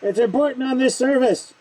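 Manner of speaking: talking through a respirator; muffled behind a paint mask. Real, not acted. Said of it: "God, I can't breathe in this thing".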